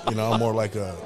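laughing through the words. Real, not acted. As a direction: chuckle while you say it. Joking about himself, laughing.

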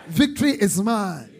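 loud, triumphant proclamation; shouted declaration. Shown as a demonstration. Preacher has congregation shout aloud, loud and triumphant. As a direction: shout it aloud, landing firmly. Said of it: "Shout it aloud".

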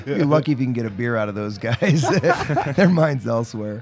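laughing mock jab at friends; gentle teasing. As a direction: tease them lightly with a laugh. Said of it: "No, I'm just teasing".

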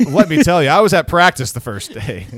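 loud laughing, barely getting words out; laughing too hard to finish; laughing through words. Real, not acted. Laughing fit continues.

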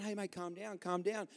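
softly soothing an angry man; hushed, placating voice; calming him down. Acted. Saint Peter to a furious golfer, calming. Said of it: "trying to calm him down".

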